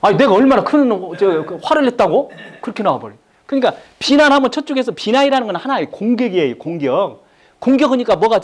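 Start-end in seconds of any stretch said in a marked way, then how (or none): 0.0-2.3 defensive husband. Retold or imitated. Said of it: "저쪽에서 뭐라고 할까요".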